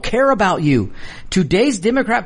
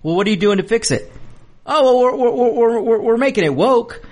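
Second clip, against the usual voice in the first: mocking Buttigieg; 5 semitones higher than usual. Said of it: "Pete Buttigieg looked at him and goes".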